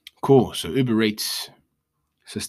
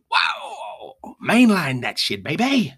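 hammed-up hype shout, much higher and louder; mock hype; 10 semitones higher, 7 dB louder, much slower than usual. Mocking lazy app users as hooked addicts, hammed-up party yell.

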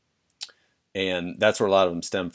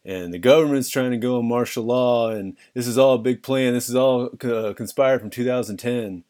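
raised, louder paranoid ranting; conspiracy theorist voice; 4 semitones higher, 3 dB louder than usual. Pretend. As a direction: sound like a wide-eyed truther. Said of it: "read them in my conspiracy theorist voice".

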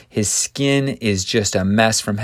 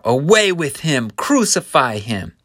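mild acted mob cry; half-raised call of a hostile crowd; 5 semitones higher, 3 dB louder than usual. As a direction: cry it out, starting higher and easing off. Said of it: "they cry out".

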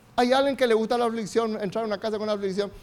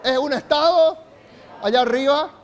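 loud call-out; 4 semitones higher, 5 dB louder than usual. Real, not acted. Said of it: "digan bien fuerte".

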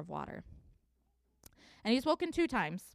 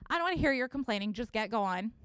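mock impatient scold; 4 semitones higher than usual. God scolding tired Elijah, mock exasperated and fast. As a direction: rattle off a sharp, exasperated rebuke. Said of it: "You know".

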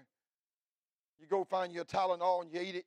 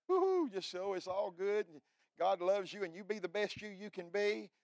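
mocking; 3 semitones higher than usual. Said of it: "Everybody wants to be a Joel Osteen".

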